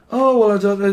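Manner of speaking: high, loud Scouse shrug; Scouse accent. Pretend. Scouser unsure about the reading, Scouse accent. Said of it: "This is a Scouser".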